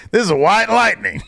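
high, laughing through it; laughing Brock. Retold or imitated. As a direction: say it while cracking up. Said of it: "And Brock says".

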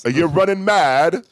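loud, high mock British accent. Teasing a friend in a hammed-up British accent. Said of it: "I love that you said buzzin'".

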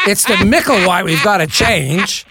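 hammed-up Cockney exasperation; exasperated agent. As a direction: hammer it home in imitated London accent. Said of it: "And Dennis said".

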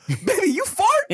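playing the grandma, laughing through it. Storyteller voicing the grandma asking about a fart, high and laughing. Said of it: "the grandma just goes".

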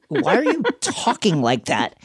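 a laugh breaking into the question; laughing mid-quote. Retold or imitated. Caller questioning a man's odd voice, retold with a laugh. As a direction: voice the puzzled caller, laughing partway through.

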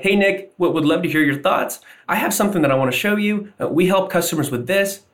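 every line lifts high like a question; high, upturned pitch on each phrase; rising questioning inflection. Shown as a demonstration. Rep on a cold call, showing high inflection. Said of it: "keeping that inflection high".

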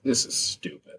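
breathy, barely voiced mock sulk; imitating sulky employee. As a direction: voice the eye-roll of a fed-up worker, under the breath. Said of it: "doing the thing with his eyes where he's just like".

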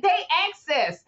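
slowly misreading "They access" as Access. Retold or imitated. Retelling Kim's ad misread, slow and deliberate. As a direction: stretch out "They access" like the TV show. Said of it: "she was like".

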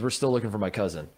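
imitating a tour guide's casual, even statement; matter-of-fact. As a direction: say it as everyday news, retold. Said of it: "he said it so matter of fact".

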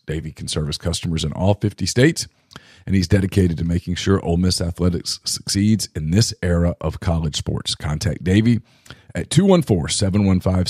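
hoarse, rough ad read; strained raspy voice; raspy whisper. Real, not acted. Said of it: "Excuse my voice".

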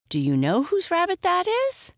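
put-on very high, insistent girl; urgent questioning. A narrator's reading. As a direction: press the question, pitch soaring. Excited girl questions Pixie.

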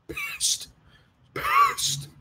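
sudden squeaky falsetto squeal, very high; squealing pissed. Real, not acted. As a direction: squeak the word out like a cartoon of rage. Furious about needless car move.

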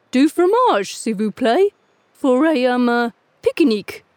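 careful, eager schoolbook French; eager little dog. A narrator's reading. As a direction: order hesitantly in French. Gus orders.

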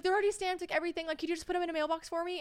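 put-on high-pitched, lightly German-accented plea; imitated German accent. Stranger asking traveller to post stamped letters, imitated German accent. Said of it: "she definitely had a thick accent".

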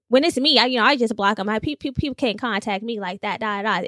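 mock a friend's judgy response. Telling her friend how she'd handle it, judgy. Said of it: "why you have to put that tone on".

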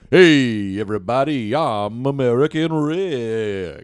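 slow, lightly put-on American accent; a mild American guy drawl, stretched slow; a laid-back American greeting, only lightly accented. Shown as a demonstration. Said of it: "I'll do an American accent right now".

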